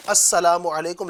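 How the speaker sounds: slow clear "السلام علیکم" with the full assalamu; correct greeting. Shown as a demonstration. Teacher to viewers, slow model greeting. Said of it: "بولیں".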